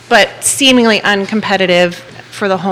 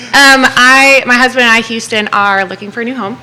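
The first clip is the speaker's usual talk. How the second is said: louder, clear classroom voice; teacher voice; 2 semitones higher, 4 dB louder than usual. Pretend. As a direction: project it like addressing a class. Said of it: "I'll put on my teacher voice".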